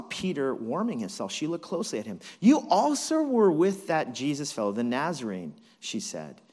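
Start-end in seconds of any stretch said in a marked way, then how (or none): 2.4-5.5 lightly acted accusation, raised voice; a touch of accusation; accusing servant girl.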